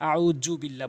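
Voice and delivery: আউযু বিল্লাহ with hard j in যু; common mistaken j. Shown as a demonstration. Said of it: "এভাবে বলে".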